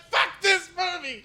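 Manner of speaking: very high, drawn-out squawk; slow, high-pitched comic protest; mock outraged cry. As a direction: cry it out in hammy exasperation. Acting fed-up viewer reaction.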